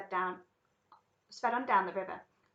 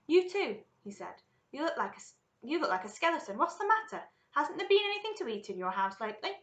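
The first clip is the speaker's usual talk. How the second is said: higher, louder, pressing questions; concerned astonishment; 6 semitones higher, 4 dB louder than usual. Acted. Wonka questions a skinny Grandpa Joe, astonished and concerned. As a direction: fuss over someone who looks half-starved.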